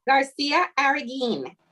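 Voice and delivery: "García Arreguín" said as one Spanish surname; name pronunciation. Shown as a demonstration. Interpreter relays the surname to the judge, demonstrating "García Arreguín". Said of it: "the pronunciation of that last name".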